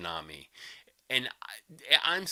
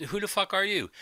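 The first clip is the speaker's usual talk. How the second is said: sharp high indignant retort; 8 semitones higher than usual. Retold or imitated. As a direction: snap back in disbelief. Owner snaps back.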